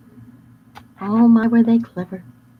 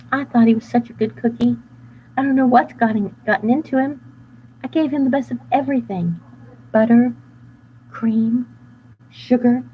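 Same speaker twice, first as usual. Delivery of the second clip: lightly voiced worried baker; a hint of a fretful baker; fussy baker voice; 5 semitones higher than usual. Baker describing the runaway cookie, fretful.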